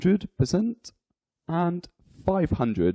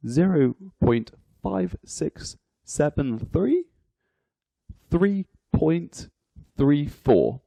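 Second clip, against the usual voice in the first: digit by digit. Shown as a demonstration. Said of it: "each digit is read individually".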